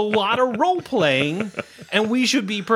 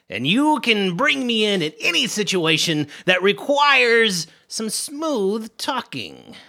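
smooth charmer voice. Acted. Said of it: "With that voice".

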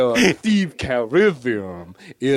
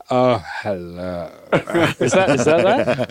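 Bosky impression; 4 semitones lower than usual. Shown as a demonstration. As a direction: drag it out low like Bosky. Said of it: "can I have it?".

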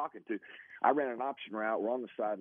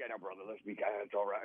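calming; 4 dB quieter, faster than usual. Retold or imitated. Reggie calming him down.

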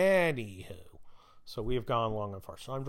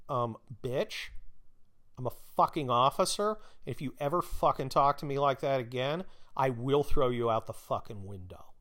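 pissed off. Retold or imitated. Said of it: "you have to be pissed".

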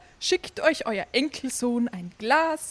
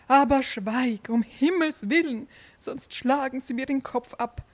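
panicked pleading; faster than usual. Acted.

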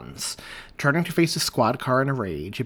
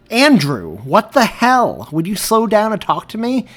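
frustrated shout; 10 semitones higher, 12 dB louder than usual. Acted. Chasing and grabbing partner.

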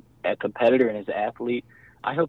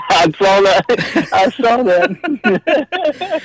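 laughing through the words, slow and drawn out; 10 semitones higher, 10 dB louder, much slower than usual. Real, not acted. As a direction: say it while cracking up at him. Host brags, guest laughs.

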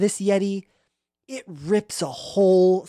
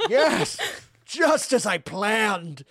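cold satisfaction; 2 semitones higher, slower than usual. Acted. Grinch slow-clapping villain.

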